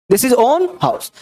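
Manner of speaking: very slow this is own house, each word stretched; wrong example, drawn out. Shown as a demonstration. Teacher reads a wrong sentence to students, very slowly. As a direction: read it out at a crawl, as a mistake to avoid. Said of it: "ऐसा लिखना गलत हो जाएगा".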